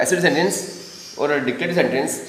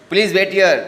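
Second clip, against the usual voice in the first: polite request, raised; 5 semitones higher, 4 dB louder, slower than usual. Shown as a demonstration. Teacher models a polite request for students. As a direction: ask it nicely.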